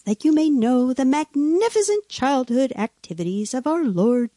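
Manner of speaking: measured storybook narration with lilting emphasis; scripture reading. Acted. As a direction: read it out as a solemn old tale. Reads a gospel excerpt aloud.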